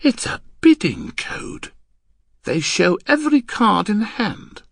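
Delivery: high, loud, emphatic revelation; excited cry. Acted. Husband explaining the code to his wife, excited. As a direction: burst out with the discovery. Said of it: "I cried".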